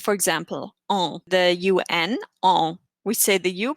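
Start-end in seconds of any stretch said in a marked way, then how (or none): 0.9-1.2 ON as a nasal vowel with silent N; nasal French vowel. Shown as a demonstration. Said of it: "the N or the M is not pronounced". 2.4-2.8 ON held nasal, N never closed; nasal vowel. Shown as a demonstration. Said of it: "we don't really say the N".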